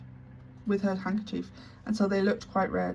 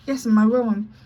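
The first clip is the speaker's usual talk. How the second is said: trembling; 3 semitones higher, 10 dB louder than usual. Acted. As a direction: answer shaking with fear. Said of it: "she said, trembling".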